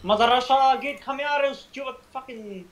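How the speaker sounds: yelling. Real, not acted. Yelling at zombies in game.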